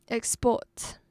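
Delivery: export leaning on PORT; light ex, stronger port in export; stress on second syllable. Shown as a demonstration. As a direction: verb export, weight on the last syllable. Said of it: "put stress on the second syllable".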